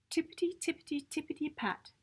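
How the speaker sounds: quiet tiptoe fading away; soft retreating patter. A narrator's reading. Narrator to children, bunnies tiptoeing away softly.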